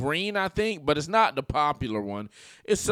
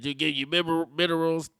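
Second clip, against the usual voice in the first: mock Zelensky accent; 3 semitones higher than usual. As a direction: fumble the word like a halting foreigner. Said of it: "He talks like this".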